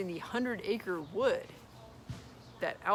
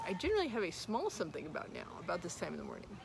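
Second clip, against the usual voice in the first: dreamily; 5 dB quieter, faster than usual. Acted. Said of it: "he went on dreamily".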